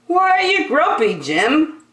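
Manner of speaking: high, fast curious question; a nosy lemur quizzing him; chirpy lemur. Acted. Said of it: "asked the others".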